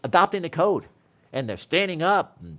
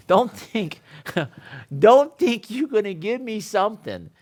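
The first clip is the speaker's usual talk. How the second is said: louder and higher with a laugh; mock challenge; 5 semitones higher, 4 dB louder, slower than usual. To his wife, a laughing mock challenge. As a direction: throw the challenge at her, half laughing. Mocking the wife's excuse.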